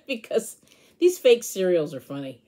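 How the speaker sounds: giggling through the explanation; amused, laughter breaking in; real giggles. Real, not acted. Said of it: "Sorry, I'm laughing".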